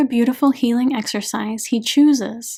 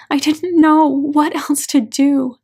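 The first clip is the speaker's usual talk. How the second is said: slower, drawn-out tearful repeat; a broken, weeping repeat; slow anguished repeat; 4 semitones higher, 5 dB louder than usual. A narrator's reading. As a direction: let it drag out through tears. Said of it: "The agony in her voice is indescribable".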